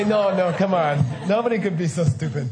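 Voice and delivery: laughing scoff at the idea; laughing disbelief. Pretend. A future doubter scoffing at history, laughing. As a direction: brush it off, half laughing. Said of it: "They'll say".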